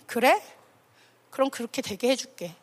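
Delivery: low, softening reply; calm, not angry. Acted. God granting the grumblers their wish, calm and low. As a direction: grant it quietly, letting the voice sink. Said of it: "크게 화도 안 내".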